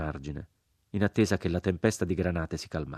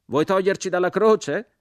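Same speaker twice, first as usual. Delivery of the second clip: grave and sad; 13 semitones higher, 8 dB louder than usual. A narrator's reading. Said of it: "con voce grave e triste".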